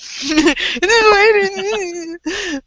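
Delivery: high, loud put-on wail; mock crying. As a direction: pretend to bawl into a towel. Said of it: "crying into a towel".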